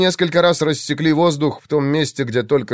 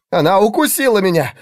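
loud, higher cry of pain; pained shout; 8 semitones higher, 4 dB louder than usual. A narrator's reading. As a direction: yell it as if just bitten. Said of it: "донёсся голос Игнация". (испуганный крик от боли)

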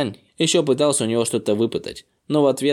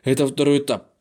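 mildly raised, excited exclamation; excited shout. A narrator's reading. Grandfather confirming the second stage, mildly excited shout. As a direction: exclaim with a touch of amazed excitement. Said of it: "Ши Цзянь взволнованно закричал".

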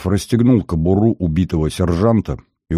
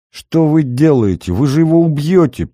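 higher, louder alarmed cry; alarmed shout; 7 semitones higher, 3 dB louder than usual. A narrator's reading. Nurse shouting at the detective, alarmed. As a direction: make them stop. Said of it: "закричала Софья Павловна".

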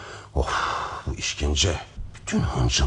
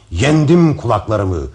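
loud, slow victory cry; triumphant cry; 8 semitones higher, 7 dB louder than usual. Acted. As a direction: proclaim your victory.

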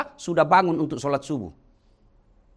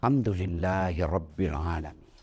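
gratitude with a hand on the chest; sincere whispered-down thanks to God; heartfelt praise; 11 semitones lower, 5 dB quieter than usual. Shown as a demonstration. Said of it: "Usap itu dada".

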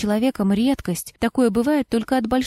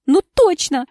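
exclamation; 7 semitones higher, 5 dB louder than usual. A narrator's reading. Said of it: "воскликнула Амина".

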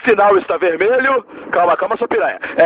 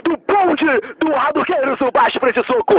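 TV host voice; 4 semitones higher than usual. Acted. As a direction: present it like a TV show host. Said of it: "a gente vai falar alto".

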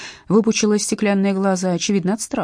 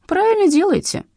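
put-on high little old woman's voice, agreeing; skinny old neighbour, high-voiced and agreeing; old lady voice; 13 semitones higher, 4 dB louder than usual. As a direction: pitch it up like a frail granny.

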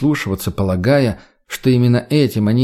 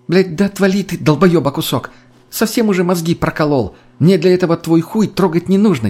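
irritated yell; 6 semitones higher than usual. Acted. Angry friend tells Mutny off.

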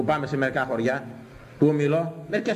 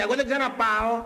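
mock indignation; 7 semitones higher than usual. Voices the offended churchgoer.

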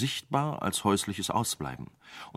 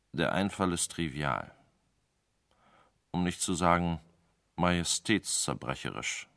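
sullen; 2 semitones lower than usual. Acted. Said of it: "sagte Globaris grämlich".

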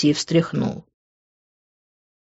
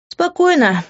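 calming; 10 semitones higher than usual. A narrator's reading. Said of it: "глубоко вздохнула я".

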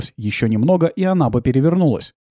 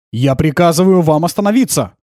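louder, firm order; commanding shout; 4 semitones higher, 5 dB louder than usual. Acted. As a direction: bark the order at the driver. Kir orders at gunpoint.

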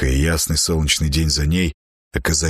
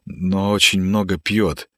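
sincere plea. Acted. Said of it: "Слова просто текли из меня, и они были искренни".

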